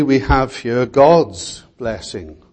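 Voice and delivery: God's given weight, drawn out; stress on God's. Real, not acted. Preacher pointing to whose blessing it is, stress on God's. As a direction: lean slowly on the word God's. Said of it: "emphasis on the word God".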